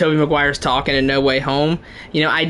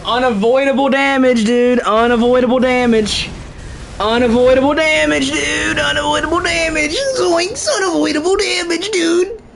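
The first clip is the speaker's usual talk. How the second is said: high voice climbing ever higher; mock whining complaint; 10 semitones higher than usual. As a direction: start high and push it up into a squeaky protest. Mock complaint about game damage, rising.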